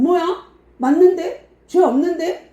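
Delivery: high, loud incredulous cries; surprised Pharisees. Acted. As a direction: react in disbelief, pitch way up.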